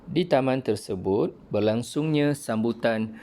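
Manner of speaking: clear, measured storybook narration; teacher reading a textbook story with careful intonation; reading aloud with expression. Shown as a demonstration. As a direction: read the passage like a model reading for pupils. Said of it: "dengan intonasi yang betul".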